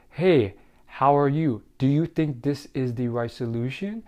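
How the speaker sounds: questioning lift at the end of "solution"; uptalk. Shown as a demonstration. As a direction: demonstrate upward inflection, lifting "you" and "solution". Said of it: "upward inflection of your voice".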